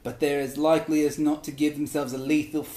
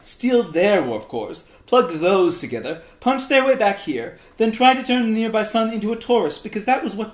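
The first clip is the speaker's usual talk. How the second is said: higher and louder, rushing through the list; exasperated Vulcan rant; 5 semitones higher, 4 dB louder than usual. Acted. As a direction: pile it on, disbelief rising. Vulcan exasperated rant about humans.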